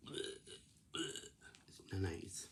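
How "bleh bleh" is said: soft fake gagging noises; mock retching. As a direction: pretend to throw up, softly. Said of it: "You go".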